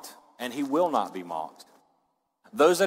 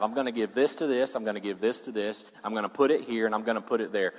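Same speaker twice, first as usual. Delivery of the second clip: lower, measured listing; acted careful planner; 3 semitones lower, faster than usual. Preacher playing someone with a plan for the money, low and measured. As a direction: lay out each step calmly.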